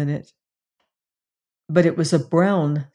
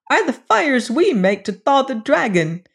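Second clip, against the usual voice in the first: high, louder gleeful dwarf voice; high creature voice, louder; dwarfs shouting; 5 semitones higher, 3 dB louder than usual. Acted. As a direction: boast about the dragon as dwarfs. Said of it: "shouted the dwarfs".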